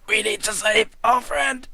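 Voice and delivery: high, loud, slow mock-heroic cry; hammed-up shout. Player cutting in as the shouting ally, hammed-up shout. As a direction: belt it out like an overblown hero. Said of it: "And then he shouts".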